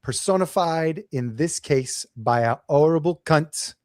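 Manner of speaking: hammed British accent, measured speech; terrible British accent; Bricktop impression. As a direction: recite it in a bad British gangster accent. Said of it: "I'll do my accent. Bricktop says".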